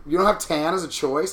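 rising, disbelieving question; can't believe tan is missing; incredulous. Real, not acted.

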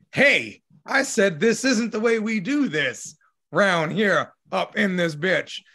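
firm dad warning, lightly voiced; a touch of a strict parent scolding; stern parent voice. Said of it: "using your mom voice or your dad voice".

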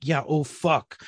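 retold pointed echo of her words; understated mock agreement; sarcastic echo. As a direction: throw it back at them drily. Husband echoes her pointedly.

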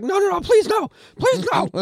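high, desperate begging cry; screaming for mercy. Retold or imitated. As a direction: beg for your life, shrieking. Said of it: "just screaming for mercy".

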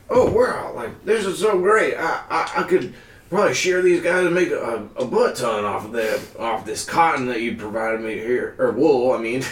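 high, excited farmer. Acted. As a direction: gush like a delighted old farmer. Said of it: "the farmer there is like".

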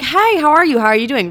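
high, sociable hello; friendly greeting. Retold or imitated. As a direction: imitate a friendly newcomer saying hi.

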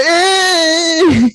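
high squealing yelp imitating him; imitating a scared sissy yelp; mock shriek. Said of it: "he's like".

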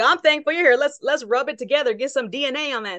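hyped celebrity reply, lightly voiced; Wahlberg imitated. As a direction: pump it up a bit, playful. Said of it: "He's like".

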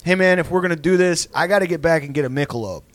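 brisk, practical fight scheduling; businesslike challenge, no bluster; matter-of-fact threat. Retold or imitated. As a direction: imitate a dad laying out logistics. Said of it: "operationally matter of fact".

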